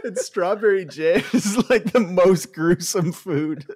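laughing. Real, not acted. Laughing at joke.

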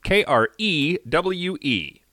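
slow letter-by-letter spelling. Shown as a demonstration. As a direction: spell each letter slowly and clearly. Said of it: "so a crew".

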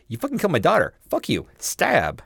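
mock furious wife. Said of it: "She was all like".

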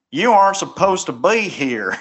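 put-on old man in a Southern accent. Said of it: "ridiculous Southern accent".

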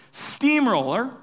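high, drawn-out mock yell; stretched, half-held-back holler; retold yell. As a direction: imitate a kid's slow battle cry. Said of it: "he yells".

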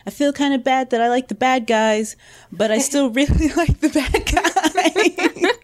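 laughing admission, voice climbing; sheepish confession. Retold or imitated. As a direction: confess it guiltily, then laugh through it.

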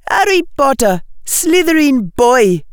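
high, loud defiant retort. A narrator's reading. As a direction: fling it back at the unseen voice. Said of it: "she said out loud".

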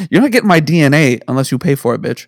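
breathy whispered taunt. Acted. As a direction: whisper it like a secret threat. Joking whispered threat.

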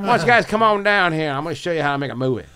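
lightly hammed rock-and-roll singer, teasing his friends; mock singer inviting the guys down. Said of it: "I'm making him sound like Elvis".

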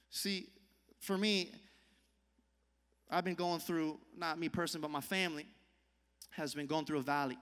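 hushed personal story from the pulpit; quiet testimony. Real, not acted. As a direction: draw them in close and hush.

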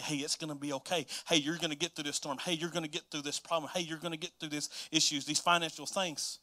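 soft reassuring voice of God, hushed; God whispering. Retold or imitated. God speaking comfort to a struggling listener, soft. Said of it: "God's whispering the truth to you".

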